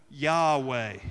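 Yahweh as a loud out-breath then in-breath, ya on the exhale, weh on the inhale; breathy spoken name. Shown as a demonstration. Pastor leading the congregation, saying Yahweh together, breathed out and in. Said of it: "listen to how it sounds".

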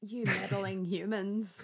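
slow theatrical villain menace; Scooby-Doo villain voice. Pretend. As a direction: drawl it like a cartoon villain. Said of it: "You Scooby-Doo villain voice".

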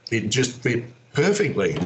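ordinary talk, nothing marked

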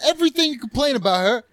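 put-on high-pitched Jersey accent tirade; heated Jersey-accented scolding; strong Jersey accent. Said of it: "I love the strong accent choices".

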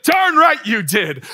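slow, loud, triumphant shout; emphatic shout. Retold or imitated. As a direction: belt it out like a proud dad. Dad answering son's church lesson.

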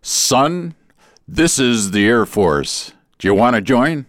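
slow dramatic pause before the Air Force; drum roll delivery. Retold or imitated. Recruiter to young recruit, slow grand reveal. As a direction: hold it like a drum roll is coming. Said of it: "as if there was a drum roll coming".

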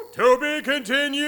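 dramatic announcer. Acted. Dramatic episode ending.

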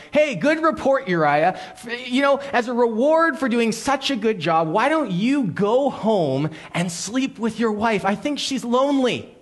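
mock friendly king.

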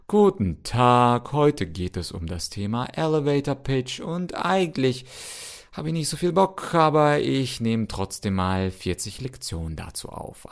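mock bored course intro, dragging the greeting; hammed-up no-motivation teacher voice; listless. Shown as a demonstration. Pretending to record a course with no enthusiasm, mock listless. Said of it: "und dann so lustlos".

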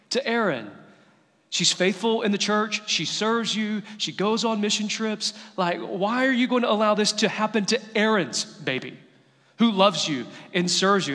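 loud, high-pitched outraged plea; angry screaming prayer. Retold or imitated. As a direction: cry out to God in angry protest. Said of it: "I am screaming at God. I am so angry".

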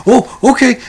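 high, let-down oh okay; mock disappointed fan; high caller voice. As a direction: deflate a little.

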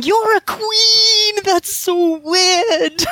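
high, drawn-out mock cry of amazement; amazed waiter. Waiter meeting the Queen, hammed-up astonishment. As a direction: imitate a gobsmacked waiter, stretching each word. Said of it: "he would be going".

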